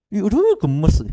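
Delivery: high-pitched adoring squeal; acted cute-aggression; gushing over baby. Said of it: "perasaan gemes toh".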